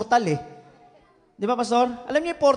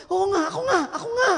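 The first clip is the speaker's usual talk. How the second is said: high, laughing yes; laughing agreement; 8 semitones higher, faster than usual. Retold or imitated. Pastor laughingly confirming to the daughter, high. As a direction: laugh through the admission.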